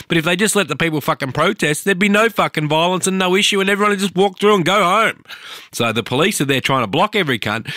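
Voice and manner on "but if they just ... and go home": building angry rant. Real, not acted. Ranting at police violence.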